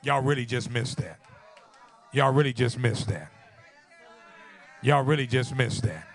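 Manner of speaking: loud, insistent preacher's refrain; preach. Real, not acted. Preacher tells the congregation they missed the point, loud insistent preaching.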